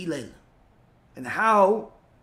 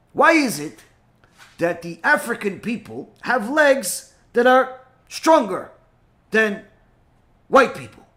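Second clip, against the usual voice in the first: taunting question; 4 dB louder than usual. Retold or imitated. Provocative question.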